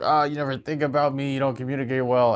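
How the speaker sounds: a hint of a hurt, complaining wife; lightly mock her complaint; imitating upset wife. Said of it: "And she was like".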